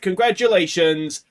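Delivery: slow, drawn-out winner's name; ceremonial announcement. Pretend. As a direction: announce the winner like a gala host.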